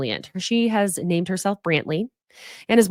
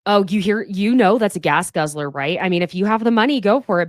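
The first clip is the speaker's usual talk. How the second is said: mock condescending friend; 4 dB louder than usual. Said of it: "that friend that you go".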